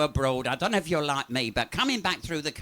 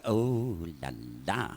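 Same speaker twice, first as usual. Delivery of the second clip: put-on French accent; 10 semitones lower, 3 dB quieter than usual. French woman's coy ending.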